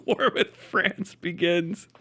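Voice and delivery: mock announcement. Mock announcement of war, laughing.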